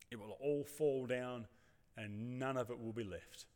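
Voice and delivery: slow, soft, weary resignation; gently resigned, slowed-down rebuke; resigned Jesus. Retold or imitated. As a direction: sigh it out like a tired teacher whose students never listened. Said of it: "with a look of resignation, as if to say".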